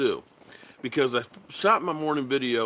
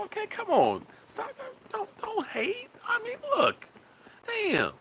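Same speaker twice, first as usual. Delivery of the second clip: high, whimpering fake sob; mock crying; 4 dB quieter than usual. Pretending to cry at viewers who hate the prank, high fake whimper. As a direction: pretend to weep, hammed-up.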